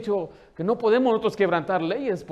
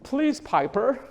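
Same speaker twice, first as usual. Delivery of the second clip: mock pleading mom, slow and higher; pleading mother; 5 semitones higher, much slower than usual. Embarrassed mother begging screaming toddler, pleading. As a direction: imitate a helpless mom begging her toddler. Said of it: "y la mamá diciendo".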